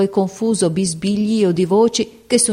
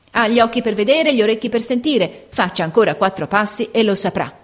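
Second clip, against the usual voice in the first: clipped impatience hiding unease; impatient, uneasy; 3 semitones higher than usual. Acted. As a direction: brush her off, secretly nervous. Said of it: "con un'impazienza che rivelava più inquietudine". (impaziente e inquieta)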